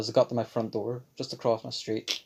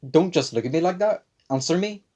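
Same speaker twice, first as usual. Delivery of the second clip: angry mum; 6 semitones higher, 6 dB louder than usual. Retold or imitated. Angry mum voiced in story.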